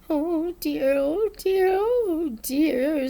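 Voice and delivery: mild worried "oh dear" to oneself; Piglet fretting. A narrator's reading. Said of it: "said Piglet to himself".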